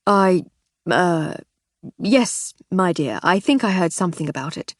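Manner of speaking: mild, halting nervous stammer; husband caught out, stammering a little. Acted. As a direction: stumble over the words, a touch nervous. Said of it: "he stammered nervously".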